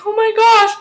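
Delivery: high, loud mock gasp of amazement; retold squeal of disbelief; acted shock. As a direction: imitate someone stunned, voice shooting way up. Voicing Elizabeth's shock at seeing Peter.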